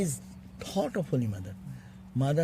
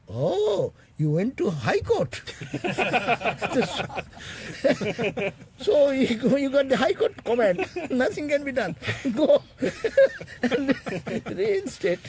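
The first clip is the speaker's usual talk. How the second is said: laughing mock surrender; 9 semitones higher than usual. Swamiji laughing as he gives in to Baburam. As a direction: concede with a big laugh, pitched up high.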